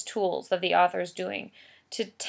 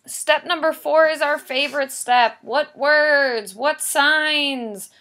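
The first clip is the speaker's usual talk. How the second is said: excited; 7 semitones higher, 6 dB louder, slower than usual. Real, not acted. Announces favorite step.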